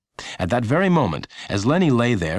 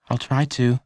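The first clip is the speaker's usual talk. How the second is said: put-on young Lenny; 5 semitones higher than usual. A narrator's reading. Lenny answers.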